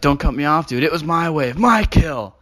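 mock possessive surfer yell; mock angry surfer.

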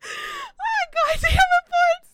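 loud, high outburst of frustration; frustrated shout. Real, not acted. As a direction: yell it out in mock despair. Losing a bet on chat.

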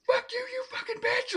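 very high snarling doll voice; Chucky snarl. Retold or imitated. Doll comes alive cursing at the mother, high snarl. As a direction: spit it out like a furious doll. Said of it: "Brad Dourif".

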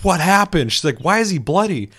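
high, loud, alarmed questions; imitating Sarah, high and upset; upset girlfriend. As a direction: sound shocked and high-pitched.

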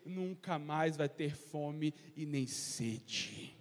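slow, weighty reading of the verses, each line drawn out; solemn scripture reading. Acted. Preacher reading John six to the church, slow and solemn. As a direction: lay the words of Jesus down slowly like a proclamation. Reads Jesus' words, slow.

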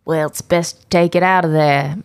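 cheeky fake British accent; put-on British accent. Co-host bantering with podcaster, put-on British accent. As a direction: advise your mate in a mock British accent. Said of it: "before I lose my accent".

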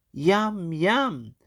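lightly high tiny prawn; a hint of a hungry prawn. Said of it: "said the tiny little prawn".

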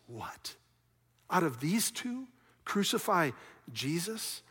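hushed, questioning incredulity; puzzled, rising at the end; quiet disbelief. Acted. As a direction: repeat it softly as a baffled question. Preacher reacts in disbelief to crowd.

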